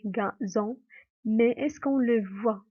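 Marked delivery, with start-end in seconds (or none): 0.1-0.8 "gazon" in two parts, ga, zon; syllable demonstration. Shown as a demonstration. Teacher pointing out the Z sound, "gazon" split in syllables. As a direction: break "gazon" before the z. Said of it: "On entend le son Z".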